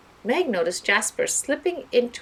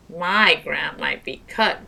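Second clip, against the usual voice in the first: slow, louder grumble; grumbling; 6 dB louder, slower than usual. Acted. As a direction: complain about it, drawn out. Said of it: "grumbled Carlos".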